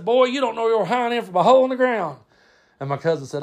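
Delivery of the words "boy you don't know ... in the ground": high-pitched exasperated put-down; scolding uncle Brad. Retold or imitated. Uncle insulting cousin's work, exasperated scolding. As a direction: tell the boy off as an uncle would. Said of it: "Brad would be getting on to him".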